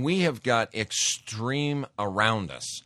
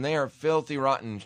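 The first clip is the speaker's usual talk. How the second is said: retold screaming; 4 semitones higher than usual. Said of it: "screaming at him".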